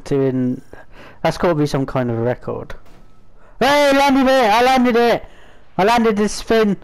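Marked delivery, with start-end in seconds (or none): 3.6-6.8 excited cheer. Real, not acted. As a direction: crow about the win. Celebrating a landing.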